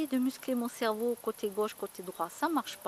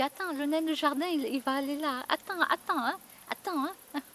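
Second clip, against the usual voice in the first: playful excitement; 4 semitones higher than usual. Retold or imitated. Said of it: "je dis".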